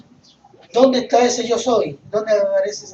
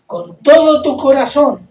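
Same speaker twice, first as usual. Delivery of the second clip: loud, higher, emphatic quote; preached commandment; 5 semitones higher, 10 dB louder than usual. Acted. Preacher quotes the commandment to the congregation, preached commandment. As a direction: drive the command home forcefully.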